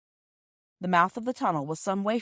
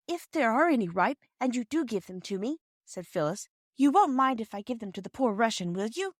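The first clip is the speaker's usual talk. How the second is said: lightly voiced girl, higher pitch; a hint of a hopeful young girl; Phyllis; 5 semitones higher than usual. Girl Phyllis asks Perks.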